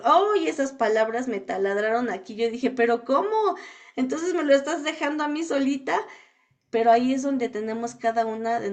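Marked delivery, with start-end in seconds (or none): 2.7-6.0 surprised dismay. Retold or imitated. Reacting to her husband's answer.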